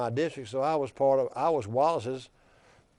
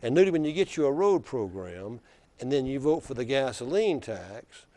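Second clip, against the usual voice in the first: put-on Black Belt accent; 4 dB louder than usual. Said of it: "he says in that deep black belt accent".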